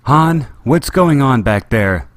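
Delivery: calling from far off, loud; yelled. A narrator's reading. Leia yells to Han from the cockpit, loud call. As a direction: yell it down the corridor. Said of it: "Leia yelled".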